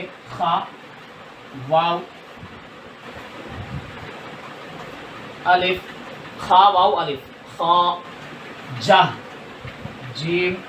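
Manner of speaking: letter names खा, वाव, अलिफ, जा said one at a time; spelling out letters. Shown as a demonstration. Teacher spells ख्वाजा for students, slow letter names. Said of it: "ख्वाजा देखिए".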